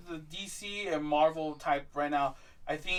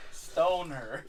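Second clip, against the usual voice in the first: laughs out loud around a dark joke; laughing; 8 semitones higher, 4 dB louder than usual. Real, not acted. Laughs while joking about Pakistan. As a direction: cracks himself up, high and loud.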